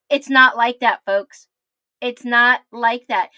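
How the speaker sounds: loud, forceful insistence; full-chest emphatic. Real, not acted. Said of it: "I'm gonna say it with my full chest".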